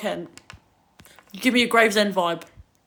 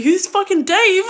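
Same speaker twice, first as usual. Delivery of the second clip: real laugh; 10 semitones higher, 10 dB louder, slower than usual. Real, not acted. Laughs at a viewer's name.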